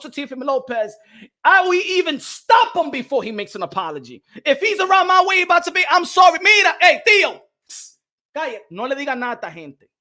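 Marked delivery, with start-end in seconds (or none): 4.4-8.0 calling out. Pretend. Calling out to Teofimo. 8.3-9.9 hushed aside. Pretend. Hushing Teofimo conspiratorially.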